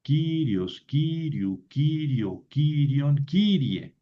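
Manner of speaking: KY-rios, KY-riu, KY-rio, long first syllable; first-syllable stress. Shown as a demonstration. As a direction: drill "Kyrios" forms with the beat on "Ky". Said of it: "Como Kyrios".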